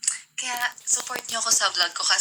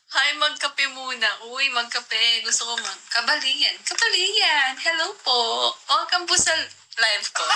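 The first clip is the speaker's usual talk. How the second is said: lightly higher, slowed host greeting; put-on vlogger voice; 3 semitones higher than usual. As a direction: play a sweet-voiced live host, a touch overdone. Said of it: "Hindi talaga ganun kalagas ang boses ko". (medyo pa-cute na boses ng host)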